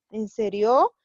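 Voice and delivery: "En serio" as a question, end of "serio" rising sharply; questioning intonation. Shown as a demonstration. Teacher repeating example question for the class, questioning intonation. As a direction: ask "En serio" with a lifted ending. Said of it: "esa entonación".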